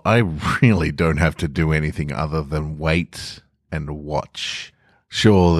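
slow menacing story reading; sinister storyteller. Acted. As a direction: savour every word like darkness spreading. Story narration as evil itself.

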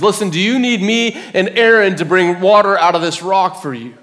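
exasperated Moses addressing the crowd; frustrated. Acted. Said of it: "and he's so frustrated".

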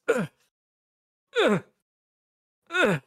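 short effortful grunts, spaced apart; strained grunts. Acted. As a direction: grunt with effort, rising high. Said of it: "and you hear this".

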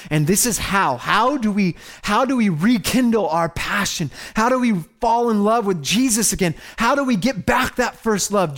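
fervent sermon build; impassioned preaching. Real, not acted. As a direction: rouse the congregation with each question. Preaches at full force.

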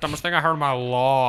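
Landon impression. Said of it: "Shout out to Landon".

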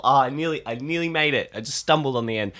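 blocked nose, cold-like voice; stuffy nose. Real, not acted. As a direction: speak through a stuffed-up nose. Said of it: "I also sound like I have a cold today".

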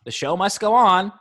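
put-on plain, lightly Russian-accented line. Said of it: "They did in a Russian accent".

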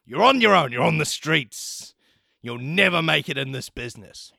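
high, stern ultimatum voice; angry principal. Retold or imitated. Principal giving Waffles an ultimatum, high and stern. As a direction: threaten the student with expulsion. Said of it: "He's like".

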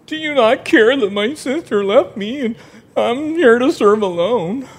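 a little whiny complaint; whiny Martha. Acted. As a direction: complain like a put-upon sister. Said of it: "it kinda sounds a little whiny to me".

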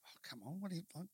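exasperated inner voice, pitch climbing; self-berating. Acted. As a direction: beat yourself up for not coping. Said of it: "You sit there and go".

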